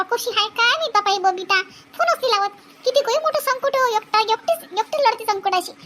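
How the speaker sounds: a hint of an anxious village mother; fretting old mother. Old mother worrying about daughter. (काळजीत म्हातारी आई, हलका आवाज)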